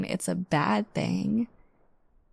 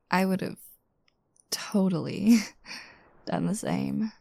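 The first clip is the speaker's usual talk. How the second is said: playful take that breaks into a laugh on done the same; teasing with a laugh. Acted. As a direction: say it again but let the tease spill into laughter. Repeated line, second take teasing.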